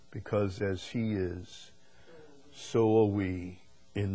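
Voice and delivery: measured, slow scripture reading. Real, not acted. Preacher reads a verse to the congregation, slow scripture reading. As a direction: read the verse out solemnly, drawing it out.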